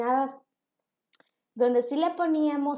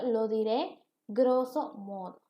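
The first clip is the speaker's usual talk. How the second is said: slow, deliberate reading of "lo diré grosso modo" without the preposition; slow, careful correct form; 3 semitones lower, slower than usual. Shown as a demonstration. Teacher models the correct phrase for students, slow and deliberate. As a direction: spell out the right version slowly and clearly. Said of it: "Debería de ser lo correcto".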